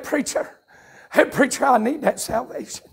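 hushed, halting imitation of a tearful man; tearful plea. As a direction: softly quote him pleading, near a whisper at first. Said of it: "big tears running down his eyes".

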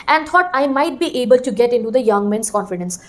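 each word laid out slowly for students; slow classroom reading. Shown as a demonstration. Teacher reading the NCERT line slowly to her class. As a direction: read it out like dictation.

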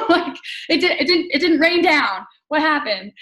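real laughter while joking about the paycheck; laughing. Real, not acted. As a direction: laugh it off at yourself. Laughing at her own paycheck.

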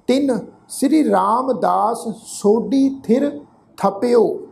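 slow, measured Gurbani reading with drawn-out words; scripture recitation. Shown as a demonstration. Teacher reading Gurbani aloud to the congregation, slow and measured recitation. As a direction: recite phrase by phrase, lengthening the endings.

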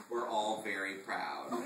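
slow eye-rolling sarcasm; a hint of bored sarcasm; dismissive. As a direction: drawl it dismissively. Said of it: "something unprecedentedly dismissive".

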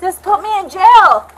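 loud, pleading angry shouts; angry yelling. Real, not acted. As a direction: yell at the cops to jail her. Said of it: "yelled at the police".

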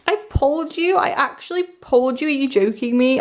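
can't believe your luck; disbelieving. Real, not acted. Fan questions her luck at the pulled card, disbelieving and high.

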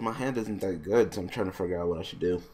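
talking through a yawn; words stretched by a yawn. Real, not acted. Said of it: "I apologize for yawning".

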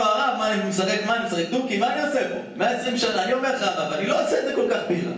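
high, whiny mock-weeping plea; mock crying. Student weeps to the Chofetz Chaim, high hammed-up whine. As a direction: wail it like a tearful student, half in jest. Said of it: "בא התלמיד של החפץ חיים בוכה".

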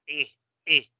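I breve, relajada, repetida; I corta de garganta. Shown as a demonstration. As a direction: suelta una I corta usando la garganta. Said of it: "usando la garganta". (I inglesa, no latina)

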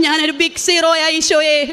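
slow, laughing confession through the words; laughing prayer. Retold or imitated. To Jesus, admitting she is a big zero, slow and laughing.

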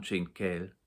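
plain reading voice

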